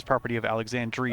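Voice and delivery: Alexandria with the i stressed. Shown as a demonstration. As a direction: lean on Alexandria. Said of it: "clearly says".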